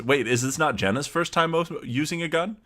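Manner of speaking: rising, confused realization mid-sentence; surprised. Real, not acted. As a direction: catch yourself, suddenly unsure. Player questions story logic.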